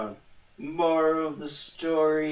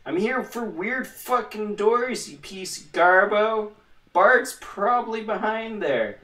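mock indignant; 8 semitones higher, 5 dB louder than usual. Talking back at his companion.

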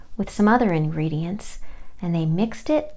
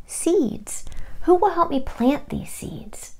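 hen voice; 9 semitones higher, slower than usual. Acted. Hen asks for help.

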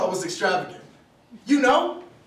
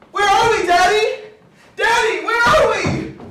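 put-on high, loud frightened little girl; acted child's panicked yell; scared yelling; 11 semitones higher, 8 dB louder than usual. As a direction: cry out to dad, scared and lost. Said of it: "Aunt C got scared. She started yelling".

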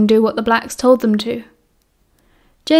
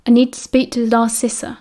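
calm. Acted. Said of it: "very clearly and as calmly as he could".

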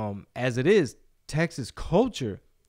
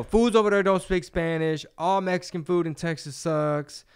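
mock outsider; 4 semitones higher, 4 dB louder than usual. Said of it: "you know".

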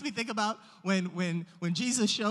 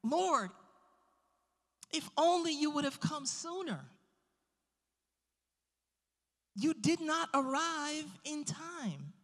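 higher, mildly mournful complaint; retold weeping lament; 8 semitones higher than usual. Mary and Martha reproaching Jesus, mock weeping lament. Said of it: "they're weeping and they're crying".

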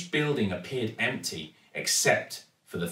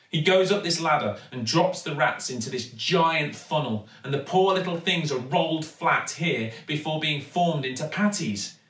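put-on higher girlish voice, urgent and eager; eager young girl; 6 semitones higher than usual. Daughter urging her father through a shortcut, eager and higher. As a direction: urge him on, lead the way. Girl's voice held in dialogue.

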